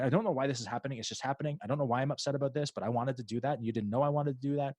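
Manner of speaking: a hint of a bewildered little kid who can't say what's wrong; confused toddler's inner voice. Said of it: "I'm talking as if I'm in, in the brain".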